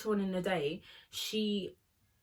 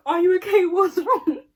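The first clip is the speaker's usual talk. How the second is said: concerned call; 9 semitones higher, 10 dB louder than usual. Retold or imitated.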